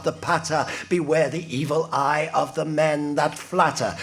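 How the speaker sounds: rhythmic incantatory verse, hitting the rhymes; performed poem. Acted. John Crow warning of men that flatter, performed poem. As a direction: chant it out as a shaman's patter.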